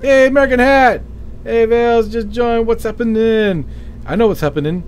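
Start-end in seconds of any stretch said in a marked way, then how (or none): 0.0-3.7 high and loud, hyped welcome; excited greeting. Real, not acted. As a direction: shout hello to a friend who just joined. Greets a viewer joining the stream.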